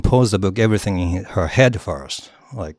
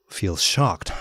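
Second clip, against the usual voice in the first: ordinary delivery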